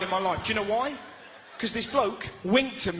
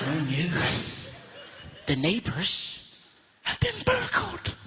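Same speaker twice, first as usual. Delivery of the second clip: mock mum; 3 semitones lower, slower than usual. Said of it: "She's like".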